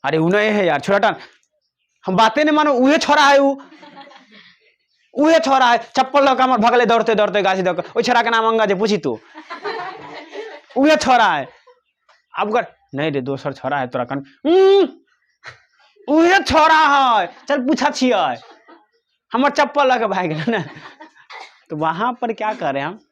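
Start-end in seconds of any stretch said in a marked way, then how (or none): 0.1-11.5 put-on village boy insisting. Acted village dialogue about a boy. 12.9-20.6 villager insisting. Acted. Villager shouting that the same boy stole his slippers. Acted dialogue, other villager.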